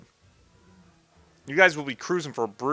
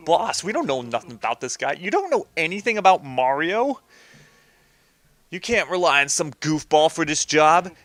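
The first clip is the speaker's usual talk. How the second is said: lightly voiced goon questioning the boss; a hint of cartoon gangster; doubting henchman; 2 semitones higher than usual. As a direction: object like a mob underling.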